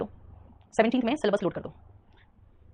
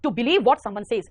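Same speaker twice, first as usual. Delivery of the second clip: slow dictation; much slower than usual. Shown as a demonstration. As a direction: spell out the definition word by word, slowly. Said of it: "जो बोला वो विश्वास कर लिया".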